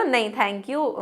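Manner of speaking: polite refusal. Shown as a demonstration. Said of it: "बस ऐसे बोलते हो ना".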